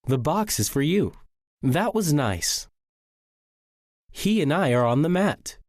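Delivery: statements dropping on "you", "nice", "mat"; falling intonation. Shown as a demonstration. Teacher reading example statements, falling intonation. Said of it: "Sentences that end in a period also end with falling intonation".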